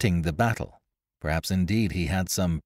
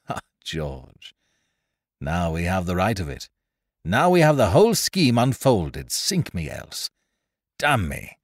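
lightly voiced reckless adventurer, gleeful; rakish pirate Ned; 4 semitones higher, 3 dB louder than usual. Ned explains the plot to George, gleefully. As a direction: relish the scheme like a daring rogue.

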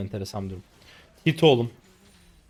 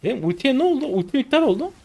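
much higher and louder in disbelief; shocked outcry; 7 dB louder than usual. Real, not acted. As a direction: cry out as the ult vanishes. Gamer shocked ult cancelled.

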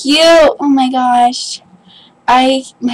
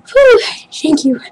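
overwhelmed thanks; 5 semitones higher than usual. Real, not acted. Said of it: "I'm having a panic attack".

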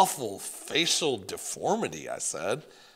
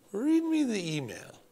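higher whispered French request; French accent; 10 semitones higher than usual. Acted. Grandmother asking grandson to read, French accent. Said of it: "Grandmere had a thick French accent".

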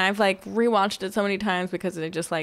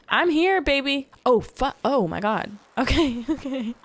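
higher and louder, thrilled; excited; 5 semitones higher, 4 dB louder than usual. Real, not acted. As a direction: greet the long-sought fish. Crimson fish finally appears.

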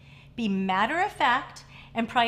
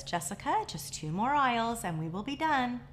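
calmly; 3 dB quieter than usual. Retold or imitated. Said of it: "The mother calmly says".

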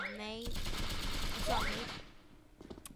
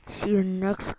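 loud sign-off; 17 dB louder than usual. Real, not acted. Loud outro sign-off to viewers.

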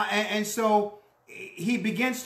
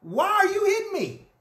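raised, plaintive donkey voice; preacher voicing the donkey, pitched up and pleading; hurt talking donkey; 9 semitones higher than usual. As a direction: play the wounded she-donkey asking why. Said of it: "The donkey says, she said to Balaam".

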